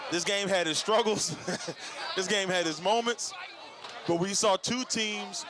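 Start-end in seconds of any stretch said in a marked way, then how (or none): 0.1-3.3 laughing. Real, not acted. Laughing while recapping.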